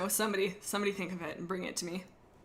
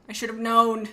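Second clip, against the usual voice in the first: louder exasperated repeat of I should have known; 7 dB louder than usual. Real, not acted. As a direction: blurt it out louder the second time.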